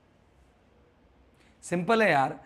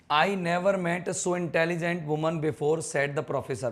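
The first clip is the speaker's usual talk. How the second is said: slow reading aloud; much slower than usual. Shown as a demonstration. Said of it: "इसे करो".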